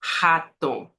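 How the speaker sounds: rato begun with a throaty h-like R; Portuguese R. Shown as a demonstration. Teacher showing learners what it won't be, Portuguese R. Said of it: "não vai ser rato".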